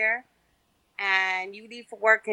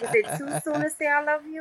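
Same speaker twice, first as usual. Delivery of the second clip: laughing; 5 semitones higher, 4 dB quieter than usual. Retold or imitated.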